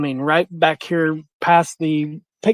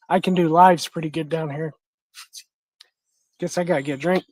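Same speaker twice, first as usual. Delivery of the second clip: hoarse, with a frog in the throat; faster than usual. Real, not acted. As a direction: speak through a froggy throat. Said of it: "Sound like I swallowed a frog".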